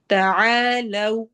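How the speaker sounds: تعالوا with lips rounded on the final lo; تعالوا, final vowel rounded and long. Shown as a demonstration. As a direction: draw out تعالوا ending in a round lo. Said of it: "ہونٹ ہمارے گول ہوں گے".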